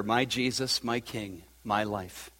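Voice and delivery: emotional. Real, not acted. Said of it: "I'm getting emotional".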